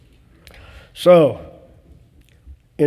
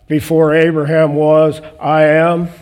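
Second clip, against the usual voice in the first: proclaiming; 6 dB louder than usual. Acted. Preacher proclaiming Jesus' words.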